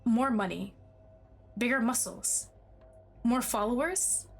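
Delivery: lightly voiced pleading, possessive boyfriend; desperate, obsessive lover. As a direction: read as an unravelling lover, understated panic. Reads love interest's desperate monologue.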